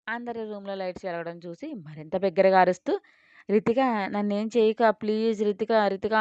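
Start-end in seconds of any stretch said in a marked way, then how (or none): 3.5-6.1 fake terrified scream. A girl faking terror to draw the family, hammed-up screaming. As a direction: fake a panicked scream to wake the house. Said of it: "అంటూ అరుస్తూ రచ్చ చేసింది".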